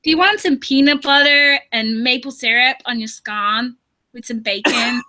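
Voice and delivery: put-on American accent. Shown as a demonstration. Coaxed by a friend to show off an American accent. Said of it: "give us your American accent".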